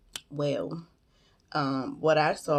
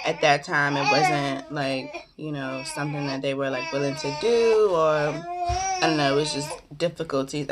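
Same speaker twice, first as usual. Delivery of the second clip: crying. Real, not acted. Emotional telling of hard pregnancy.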